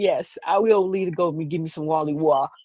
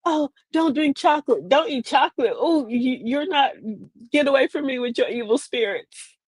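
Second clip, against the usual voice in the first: preachy advice-giver; 5 semitones higher than usual. Retold or imitated. Mocking health advice givers.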